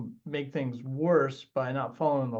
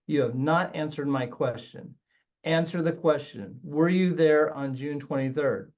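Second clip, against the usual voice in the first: firm, measured cross-examination; direct approach. Shown as a demonstration. Attorney addressing an evasive witness before the jury, direct. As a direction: press the witness for an answer. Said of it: "So that might be a direct approach".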